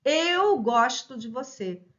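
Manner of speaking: "gosto" with an open O, "GÓS-to", slow and loud. Shown as a demonstration. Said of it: "aqui pronúncia com O aberto".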